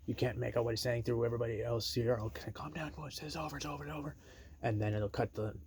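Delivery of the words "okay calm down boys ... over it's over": mock calming. Cops calming the brawl.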